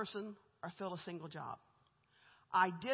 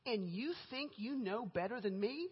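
The speaker's indignation; 3 semitones higher than usual. Retold or imitated. Boss pulling rank on a new recruiter, mock indignation. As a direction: imitate an incensed boss without raising the volume. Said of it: "she was so mad".

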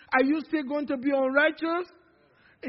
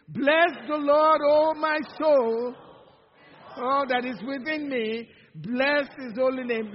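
louder, slow and fervent on the opening; excited recitation; 6 dB louder than usual. Shown as a demonstration. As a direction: say it like you really mean it. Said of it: "like you really mean it".

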